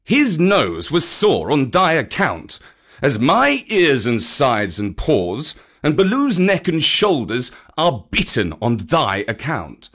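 emphatic, indignant rebuke; angry scolding. Acted. Panther blaming the boy for their wounds, angry. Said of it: "said Bagheera angrily".

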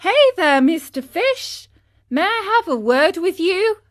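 high, loud hail across the water; eager marionette calling to the dolphin. A narrator's reading. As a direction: shout out to a fish far off. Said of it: "the marionette said to him".

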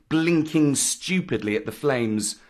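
plain reading voice

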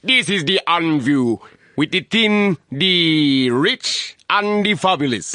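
high, slow crab voice. Shown as a demonstration. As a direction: sign off like a cartoon crab. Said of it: "You gotta do it as the crab".

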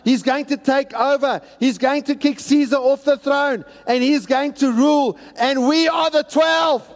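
a hint of giddy ambitious followers; eager disciples. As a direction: play the disciples dreaming of power. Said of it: "they're thinking".

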